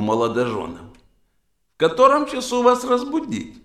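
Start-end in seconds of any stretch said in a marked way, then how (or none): 1.8-3.5 high polite clerk voice. Acted. Hotel clerk asking the newlyweds.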